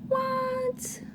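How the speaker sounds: ordinary delivery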